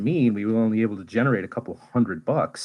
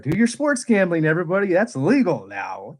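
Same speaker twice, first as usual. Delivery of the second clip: much higher mock announcer hyping gambling; mock ad pitch; 7 semitones higher than usual. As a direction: parody a cheesy betting ad. Mocks gambling advertisements.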